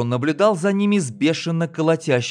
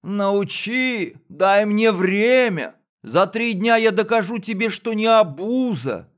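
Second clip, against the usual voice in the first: high squeaky mimicking of the boy; mock the whining kid in a squeak; 8 semitones higher than usual. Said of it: "передразнил погонщик писклявым голосом".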